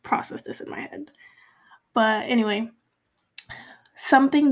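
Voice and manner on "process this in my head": trailing off into a whisper; whispered to herself. Real, not acted. Whispering to herself while processing her feelings. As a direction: drop to a whisper as if thinking.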